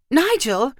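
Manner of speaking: high-pitched alarmed question, drawn out; crying out. A narrator's reading. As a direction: cry out to a husband at the wheel. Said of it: "Marissa cried".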